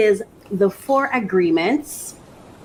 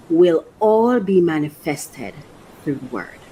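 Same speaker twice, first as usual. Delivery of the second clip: reading aloud. Acted. Reading the book's passage to her viewers, measured.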